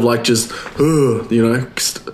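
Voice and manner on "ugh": mock low-energy groan. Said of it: "high energy. You know what I mean? Instead of".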